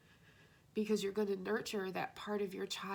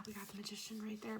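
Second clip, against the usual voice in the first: whisper; 6 dB quieter, faster than usual. Real, not acted. Revealing a card.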